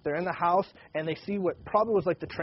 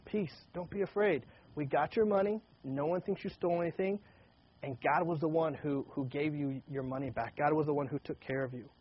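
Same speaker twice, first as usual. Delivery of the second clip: softer, calm steward reassuring the frightened brothers; gentle reassurance; 4 dB quieter than usual. Retold or imitated. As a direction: soothe them gently. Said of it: "He's saying".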